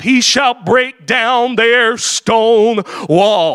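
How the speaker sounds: slow, measured Bible reading; slow scripture reading. Acted. Preacher reading Nehemiah to the congregation, slow and measured. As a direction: lay out each question slowly.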